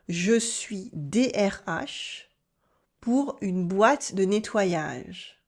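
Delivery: slowly, word by word, for learners to copy; slow model sentence. Shown as a demonstration. Teacher slows the sentence down for learners to repeat. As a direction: split it in two and take your time on each half. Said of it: "Yes, repeat after me".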